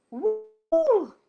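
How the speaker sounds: high, loud whoop of relief; relieved victory whoop; triumphant woo. Acted. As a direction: cheer like you've beaten the monster. Character triumphant cry.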